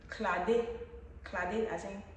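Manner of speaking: Clade said klade with a Grebo accent; Grebo pronunciation. Shown as a demonstration. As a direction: Clade in two clear syllables, Grebo style. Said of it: "You have to pronounce it with a Grebo accent".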